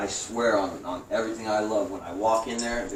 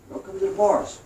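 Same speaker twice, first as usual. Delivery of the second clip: guard calling; 11 semitones higher, 5 dB louder than usual. Retold or imitated. Guard calling him over.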